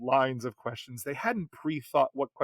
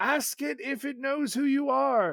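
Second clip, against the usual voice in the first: very high, slow, drawn-out carrying shout; 12 semitones higher than usual. Retelling a player shouting across a bar: retelling a shout across a bar. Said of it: "shouting from across the bar".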